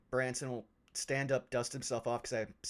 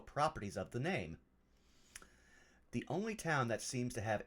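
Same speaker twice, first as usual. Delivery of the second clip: measured, formal reading of a letter; deliberate, literary narration; journal read aloud; 4 dB quieter than usual. Acted. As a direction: read it out like a scholar's musings. Reads a journal entry aloud in character.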